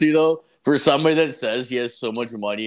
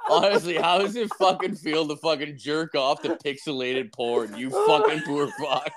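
after laughing hard. Real, not acted. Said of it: "My stomach hurts from laughing".

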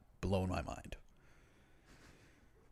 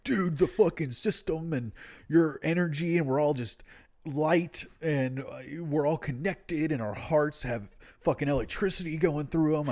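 higher airy stoner rant; lightly mocking spaced-out hippie; 5 semitones higher than usual.

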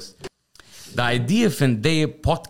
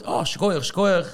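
Arle's schkoich, schkoich quoted higher, falling at the end; quoted exclamation; 7 semitones higher, slower than usual. Retold or imitated. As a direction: drop the pitch down on the last schkoich. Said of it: "die ist mir gesagt".

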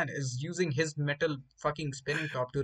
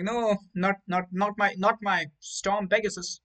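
higher, louder, slow mock despair; hammed-up anguish; mock desperate plea; 5 semitones higher, 5 dB louder, slower than usual. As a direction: beg to save the prized Beyblade. Kid clutching his Beyblade.

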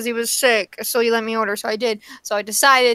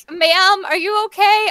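higher, louder concerned question; mock-concerned, raised voice; imitating drive-thru worker; 7 semitones higher, 4 dB louder than usual. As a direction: retell a worker checking on you, pitched up. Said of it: "they're like".

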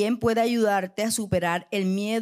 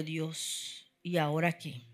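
despairing plea; 7 semitones lower, 10 dB quieter, slower than usual. Retold or imitated. Despairing cry to God, jobless.

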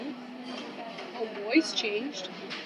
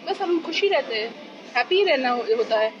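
put-on fast, higher childlike chatter; mimicking a child; 4 semitones higher, much faster than usual. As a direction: rattle it off like a stubborn girl. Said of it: "Like, हाँ, ये emotion है".

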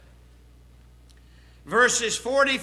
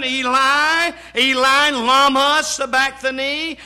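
raised preacher's voice imitating the cry; 4 dB louder than usual. Jesus calling to his Father from the cross, preached cry. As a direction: call it out as an anguished question, moderately loud. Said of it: "He said over and over and over this question".

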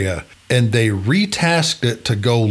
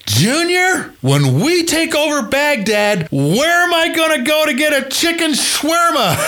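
mock indignant general. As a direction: wail about losing the shawarma place. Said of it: "with a straight face".

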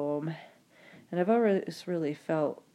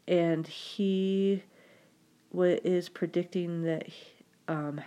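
sniffling with a stuffy nose. Real, not acted. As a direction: talk through a runny, sniffly nose. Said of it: "excuse my sniffling".

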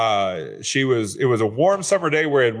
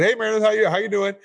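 bright, much higher "how you doing"; cheerful greeting; 8 semitones higher, faster than usual. Retold or imitated. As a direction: greet her like an old friend, pitch up high. Greeting a returning client on phone.

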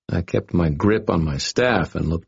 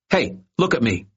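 higher, sharp snarl; 6 semitones higher than usual. A narrator's reading. Boy snarling at the dangling bully. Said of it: "Irwin snarled".

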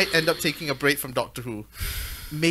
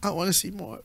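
Kristen impression; 8 dB quieter than usual. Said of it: "this is my Kristen accent".

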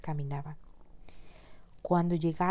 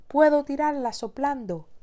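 booming wolf; 7 semitones higher, 8 dB louder than usual. Acted. Wolf boasts.

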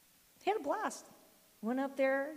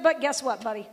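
much louder, bright turn; upbeat call; 9 dB louder than usual. Retold or imitated. Grandma cheering up grandson, loud. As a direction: lift it into good news. Grandma turning to good news.

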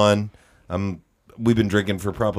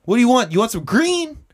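high, raised dealer's call; mock holler, pitched way up; imitated calling up; 12 semitones higher than usual. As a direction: call the offer up to a balcony. Gardener calling up to balcony.

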